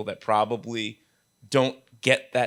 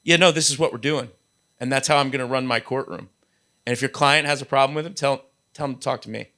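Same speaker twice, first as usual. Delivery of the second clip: quoting a judge; 2 semitones higher, faster than usual. Retold or imitated. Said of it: "they show up at Bar Association events and they say".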